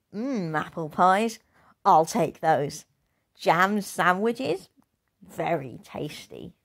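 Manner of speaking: smug. Acted. Girl stealing the cub's food.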